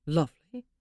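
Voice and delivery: loud disbelieving echo; incredulous. Acted. Husband echoes his wife's word, loudly incredulous. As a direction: throw the word back in disbelief.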